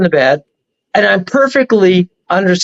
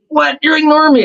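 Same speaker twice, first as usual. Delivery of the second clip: higher, indignant demon whining at being ignored; mock angry demon; 9 semitones higher than usual. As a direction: play the offended demon, pitched up.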